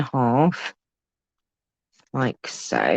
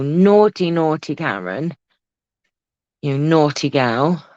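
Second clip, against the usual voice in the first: playful scolding. Real, not acted. Host teasing viewer Karen for watching, mock scolding.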